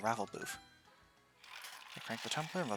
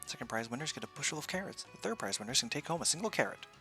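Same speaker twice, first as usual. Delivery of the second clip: booming prize announcer; 2 semitones higher than usual. Acted. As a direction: hawk the raffle to passersby. Raffle booth barker pitch.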